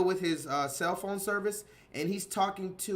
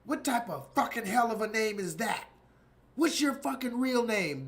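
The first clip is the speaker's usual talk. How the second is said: mock outraged customer; 4 semitones higher than usual. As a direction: sneer at the name in disbelief. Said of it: "He's like".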